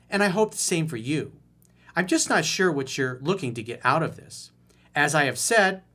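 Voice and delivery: lightly voiced entitled Karen; Karen impression. Coach reading the woman's text as a mild Karen. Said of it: "I'll do my best Karen impression".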